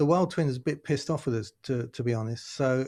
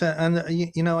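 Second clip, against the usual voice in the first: normal talking voice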